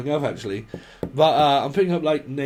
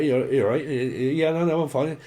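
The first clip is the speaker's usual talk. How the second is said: put-on Cornish accent. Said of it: "right proper accent".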